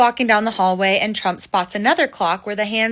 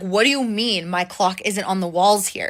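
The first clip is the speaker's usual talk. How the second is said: ordinary talk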